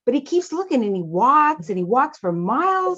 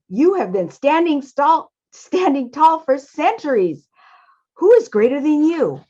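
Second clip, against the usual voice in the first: higher-pitched, marvelling storybook mouse; Father Mouse, amazed; 5 semitones higher than usual. Acted. Father Mouse asks the tall Wall who is greater, amazed. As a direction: question him in raised, incredulous tones.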